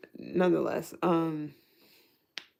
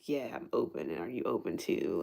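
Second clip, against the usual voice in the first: low mock open partner; 10 semitones lower, 4 dB quieter than usual.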